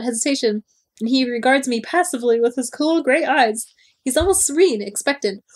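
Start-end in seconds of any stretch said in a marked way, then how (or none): none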